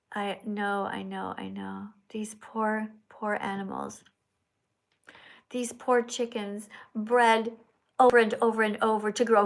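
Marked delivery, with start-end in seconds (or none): 0.1-4.0 close to tears. Real, not acted. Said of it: "you're gonna make me cry".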